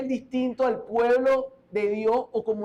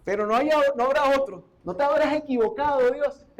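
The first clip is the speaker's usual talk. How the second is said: higher, teasing disbelief; half-joking doubt aimed at God; doubtful Ananias; 3 semitones higher than usual. Acted. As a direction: Ananias asking God if he made a mistake.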